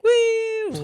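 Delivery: high whooping cheer; excited woo. Retold or imitated. Guys in a car cheering for their selfie video, high whoop. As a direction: whoop like a hyped-up guy filming himself.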